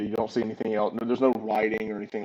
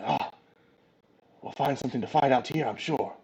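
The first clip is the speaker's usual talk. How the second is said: quiet, quickly spoken small voice; soft little voice from the player's side; lightly voiced small companion, tailing off quieter; 5 dB quieter than usual. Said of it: "you hear a small voice".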